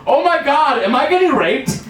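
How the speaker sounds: high-pitched panicked cry, retold; mock scream. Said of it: "and I scream".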